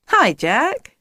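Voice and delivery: high, friendly hello; smiling greeting. A narrator's reading. Miss Whiz looking up at Jack, smiling greeting. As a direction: greet him with a smile. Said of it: "she smiled".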